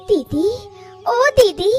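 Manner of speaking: high pained cry of guilt; distraught. Acted. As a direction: wail over her sister. Sister grieves over collapse. (दुखी होकर रोना)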